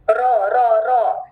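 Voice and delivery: रॉ said full and heavy, loud; heavy letter. Shown as a demonstration. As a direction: thicken the रॉ sound. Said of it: "मोटा हर्फ है". (मोटा रॉ)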